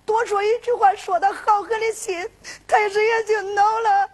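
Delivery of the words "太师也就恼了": tearful telling. Acted. Sister tells of brother's fate.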